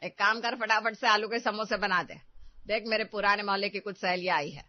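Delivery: loud, domineering orders; bossy commanding. Acted. Mother-in-law ordering her daughter-in-law in front of friends, loudly domineering. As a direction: boss her around to show off your authority. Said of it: "ساس کی آواز میں الگ سی آہٹ ہے، جس سے وہ ریٹا کو ڈرانے کی کوشش کر رہی تھی".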